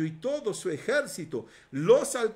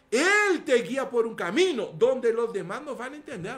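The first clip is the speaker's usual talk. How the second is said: building emphasis; 5 dB louder than usual. Real, not acted. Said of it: "repite con más fuerza".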